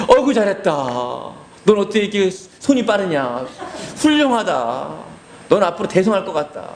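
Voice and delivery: hammed-up proud father; mock praise. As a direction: gush over the kid sarcastically. Father mockingly praises theft.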